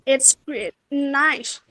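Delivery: GREAT and NICE each dropping in pitch; demonstrated downward tune on "great" and on "nice"; fall intonation. Shown as a demonstration. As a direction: let "great" and "nice" fall away separately. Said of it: "it is a fall intonation".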